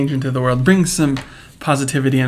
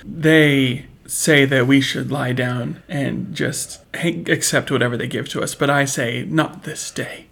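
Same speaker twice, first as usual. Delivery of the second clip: rallying speech. Pretend. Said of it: "rallying speech to followers".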